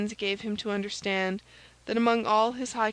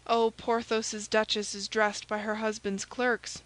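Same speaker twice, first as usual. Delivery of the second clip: usual speaking voice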